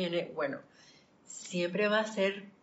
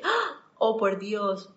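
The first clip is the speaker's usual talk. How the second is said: startled gasp; 3 semitones higher, 4 dB louder, much slower than usual. Retold or imitated. Retelling her shock at being late, startled. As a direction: replay the shock of realising she's late.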